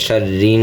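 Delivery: শার রিন straight into a long humming n; sounded nun. Shown as a demonstration. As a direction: skip the alif and hold the n of রিন. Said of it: "নুনের উচ্চারণ হবে". (শার রিন-এ নুনের গুন্নাহ)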